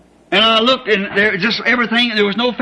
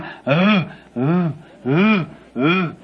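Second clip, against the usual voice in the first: mock haunted moan; 3 semitones lower, much slower than usual. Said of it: "they were going".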